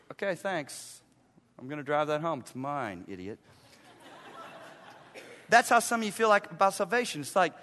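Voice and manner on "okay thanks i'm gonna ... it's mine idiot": ungrateful taker. Acted. Acting out ungrateful van taker.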